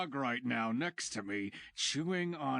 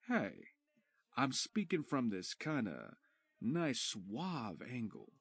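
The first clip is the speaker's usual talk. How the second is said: suave demo; slower than usual. Shown as a demonstration. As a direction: speak from a suave angle. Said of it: "talk more like".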